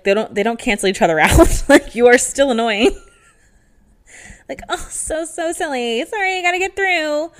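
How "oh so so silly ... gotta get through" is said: higher, airy fake-sweet voice; mock high apology. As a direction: mimic her saying sorry while pushing through. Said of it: "the higher your voice".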